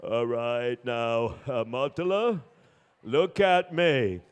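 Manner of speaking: low, measured doctor. Acted. Doctor beginning to examine Matala, low and measured. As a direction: address the patient deliberately, deep and slow.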